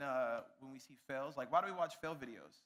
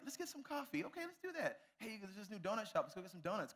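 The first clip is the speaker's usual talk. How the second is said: casual date chatter; 3 semitones higher, 5 dB quieter than usual. Retold or imitated. Casual date chat voiced.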